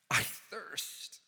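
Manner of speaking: faint whispered cry of thirst. Acted. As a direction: let it fade to a whisper. Dying whisper on cross.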